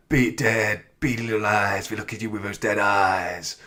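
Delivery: awful Quint impression. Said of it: "that's my awful impression of Quinn".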